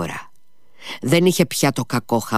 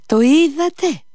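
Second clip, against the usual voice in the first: high, loud shriek of «είδατε»; beside himself, shrieking; 6 dB louder than usual. A narrator's reading. Captain to Alyosha, shrieking beside himself. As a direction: screech it out, pale and beside himself. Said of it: "τσίριξε χλωμός και εκτός εαυτού".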